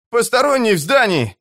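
panting, raise the alarm; urgent panting report. Acted. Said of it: "задыхаясь, крикнул Бивис". (задыхаясь, кричит охране о постороннем)

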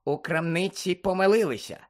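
high squeaky voice, rising in amazement; astonished elf. A narrator's reading. House-elf to Harry about matching socks, wide-eyed squeaky amazement. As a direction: exclaim over a shocking shop mistake.

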